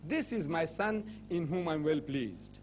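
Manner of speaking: slow, measured scripture quote; lightly voiced heavenly pronouncement, stretched out. Voice from heaven at the baptism, slow pronouncement. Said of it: "a voice was heard from heaven saying".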